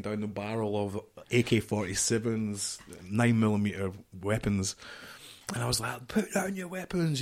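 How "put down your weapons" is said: raised but calm order; firm, assertive order, no anger; head of security ordering armed guards to stand down; calm firm command. Retold or imitated. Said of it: "I was screaming at them calmly".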